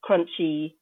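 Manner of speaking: crackly, distorted laptop mic; speaking through crunchy, broken audio. Real, not acted. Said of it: "apologize for my crunchy, uh, audio".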